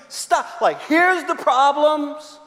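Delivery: high, slow "Stop it" aimed at the church; comic scolding; mock curt command. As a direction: snap it at the whole room. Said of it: "tell you".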